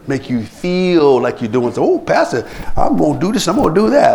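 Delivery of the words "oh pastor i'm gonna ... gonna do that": higher, gushing vow to the pastor; mock eager promise. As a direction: parody an over-keen church volunteer. Mimicking empty promises to pastor.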